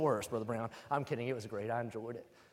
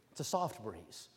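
much lower, softer, airy repeat; low hushed echo; 7 semitones lower, 6 dB quieter, slower than usual. Shown as a demonstration. Preacher echoing the phrase low and hushed. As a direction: breathe it like a passing breeze.

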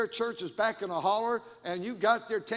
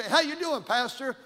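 imitating a loud, high greeting; hearty greeter; 6 semitones higher, 6 dB louder than usual. Church member greeting the pastor, imitated as loud and hearty.

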